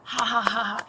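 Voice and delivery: imitated taunting laugh, spelled out; mock laugh. Witness imitates him provoking her, mock laughing. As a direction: mimic his fake laughing at you.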